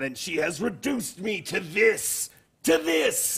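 theatrical lament. Acted. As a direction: wail your sorrow to the tavern, grabbing a lapel. Kobold's drunken dramatic lament.

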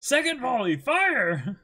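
high, loud hammed-up order; shouted command. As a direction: call the volley like a commander. Voicing commander ordering volley.

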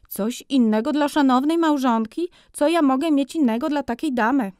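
high, loud flattering shopkeeper; ingratiating high-voiced merchant; fawning furrier. A narrator's reading. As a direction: flatter the lady, oily salesman. Furrier fawning over customers.

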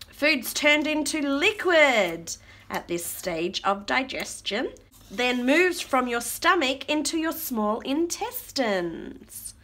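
slow, measured rhyming read-aloud; reading to children. Acted. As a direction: draw out the verse for toddlers. Reads rhyming book aloud.

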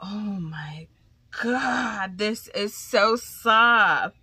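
slow, loud drawn-out gush. Real, not acted. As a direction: savour every word. Gushing over silk.

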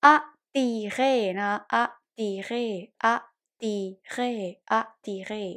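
"attirer" sounded out as a-ti-ré; pronunciation demo. Shown as a demonstration. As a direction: model "attirer" carefully, short a then ti-ré. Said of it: "ออกเสียงว่า".

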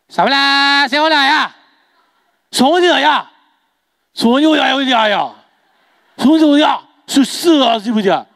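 sing-song imitation Chinese chatter; mock Chinese gibberish. Shopkeeper calls to his wife, hammed-up mock Chinese. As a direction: rattle off fake Chinese with stretched endings.

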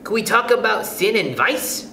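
high schoolgirl plea; pleading pupil. A narrator's reading. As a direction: plead with teacher in a high child's voice. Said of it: "pleaded Lydia Lacy".

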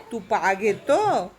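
drawn-out sweet question; coaxing a kiss from the parrot. Real, not acted. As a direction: coo it slowly to the bird. Baby talk to the parrot.

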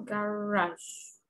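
Garage said almost the Spanish way, ending in a soft zh; model pronunciation. Shown as a demonstration. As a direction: say Garage close to how Spanish speakers say it. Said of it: "casi como lo decimos nosotros". (Garage casi como en español)

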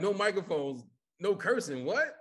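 incredulous echo. Retold or imitated. Comedian hears there's no cursing, incredulous. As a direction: echo the rules in disbelief. He reacts to the rules.

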